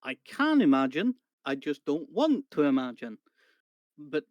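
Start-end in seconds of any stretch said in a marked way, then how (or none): 0.0-3.2 a louder, half-laughing wince; wry, raised voice; loud wry protest. Real, not acted. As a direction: push it out with mock horror. Player reacts to grisly threat.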